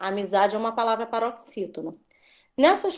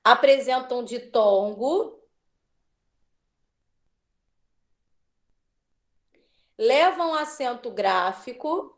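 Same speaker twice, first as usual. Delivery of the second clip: slow dictation with held-open rising ends; measured classroom dictation, ending each phrase on a rise; slower than usual. Real, not acted. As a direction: dictate slowly for pupils to copy. Teacher dictating answer for pupils to write.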